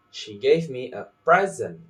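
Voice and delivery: "present" with the weight on PRES; stressed noun PRESENT. Shown as a demonstration. Teacher repeats a practice sentence, first-syllable stress on "present". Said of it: "practicing like this".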